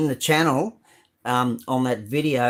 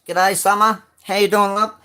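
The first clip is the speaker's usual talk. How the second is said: higher and louder hearty hello; cheery greeting; 8 semitones higher, 7 dB louder than usual. Real, not acted. Greeting viewer Summer in the live chat, loud cheery hello. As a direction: beam out a warm g'day to a friend.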